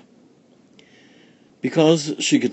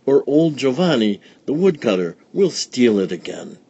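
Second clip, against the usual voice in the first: put-on louder, worried old woman; old village woman; 4 semitones higher, 4 dB louder than usual. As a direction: grumble about the thief. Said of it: "said Befana".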